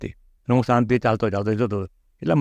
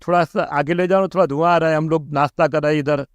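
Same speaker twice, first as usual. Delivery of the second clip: gentle call out; 3 semitones higher than usual. Retold or imitated. Calling to the truck driver to move the smoking truck, a gentle raised call. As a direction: call out over the truck noise, not harsh. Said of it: "પછી ધીમેથી બૂમ પાડી".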